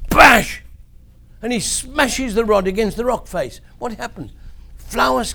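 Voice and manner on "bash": shouted smash sound effect; loud bash. Acted. Storyteller voicing Moses striking the rock, loud bash. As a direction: make the crash of the rod on rock.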